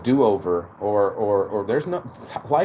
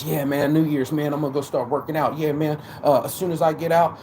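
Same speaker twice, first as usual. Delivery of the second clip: boisterous; 4 semitones higher than usual. Retold or imitated. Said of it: "So we all get so boisterous".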